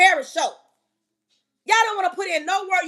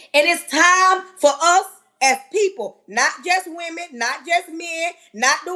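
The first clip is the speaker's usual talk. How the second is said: louder, forceful declaration; loud preaching; 3 dB louder than usual. Real, not acted. Speaker preaching to her audience with loud force.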